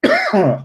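choking cough; chesty cough. Real, not acted. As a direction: cough as if something went down wrong. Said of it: "aż mnie kaszel złapał".

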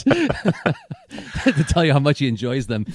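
slow, laughing through the words; giggling while he finishes. Real, not acted.

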